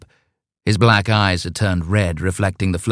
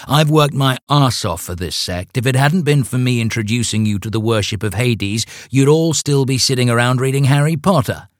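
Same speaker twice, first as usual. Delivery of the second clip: raised, indignant voice; indignant rant; 5 semitones higher than usual. Acted. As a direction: scold them, full of grievance. Leader berates members.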